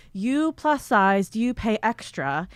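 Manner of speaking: slow, lightly imitated Asian accent; toned-down Asian accent. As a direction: imitate a shop lady's Asian accent, drawn out. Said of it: "I still do the accent".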